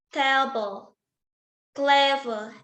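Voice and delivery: "table, clever" with the first syllable of each stressed. Shown as a demonstration. English student showing stress on first syllable, first syllables of "table, clever" stressed. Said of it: "stress on first syllable".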